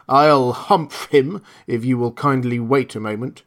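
loud, knowing magical spirit; a grand desert genie. Acted. Djinn promises to deal.

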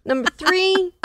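mock motivational speaker listing rules; workshop coach. Turkey teaching a convention workshop, lightly played as a coach. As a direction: lay down sales rules to a room. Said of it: "where they're doing workshops on how to".

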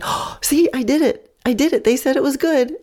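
proud horse. Retold or imitated. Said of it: "she was like".

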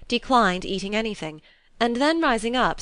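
usual speaking voice

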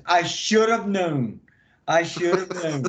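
slow, amused boss voice; imitating the boss. Boss chuckling at the prank, slow amused voice. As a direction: drag it out like a boss who saw it coming. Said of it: "he goes".

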